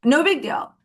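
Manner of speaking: high, airy, falsely casual brush-off; mock breezy kindness. Retelling her breakup voice note to him, mock breezy kindness. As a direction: drop it sweetly, as if it were nothing. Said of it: "I oh so kindly sent him".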